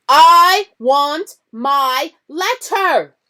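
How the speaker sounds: high, loud, slow shout; boy shouting for his letter. A narrator's reading. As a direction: yell it and draw it out. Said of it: "he shouted".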